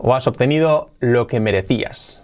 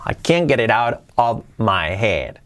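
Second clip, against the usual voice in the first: slow careful model; slower than usual. Shown as a demonstration. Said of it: "Fijaos cómo suena".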